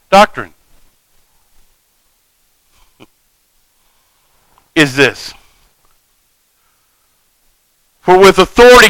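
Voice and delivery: astonished crowd wondering aloud; 놀라서 서로 묻듯; amazed questioning. Acted. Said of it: "they questioned among themselves, saying".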